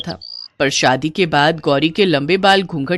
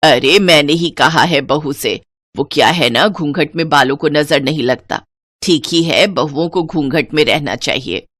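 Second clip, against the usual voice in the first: put-on lower, firm old-fashioned mother-in-law; stern mother-in-law; 5 semitones lower than usual. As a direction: lay down the house rules to the new bride. Mother-in-law justifies veil.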